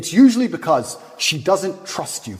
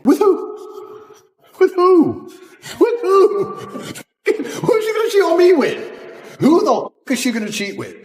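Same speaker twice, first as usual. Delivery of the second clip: incredulous; 13 semitones higher than usual. Real, not acted. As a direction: scoff at the very idea. Mocking the idea of cheating.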